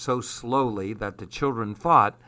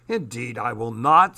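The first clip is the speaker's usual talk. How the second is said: mild snap. Acted. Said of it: "snapped Armand".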